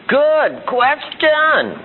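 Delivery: very drawn-out, high-pitched mock reply; comic stalling. Adult answering a kid's why, comically stalling. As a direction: stretch both words out absurdly for a laugh.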